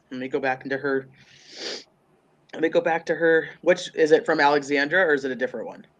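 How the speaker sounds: stuffy blocked nose; congested. Real, not acted. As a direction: talk through a congested nose. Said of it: "I'm so congested".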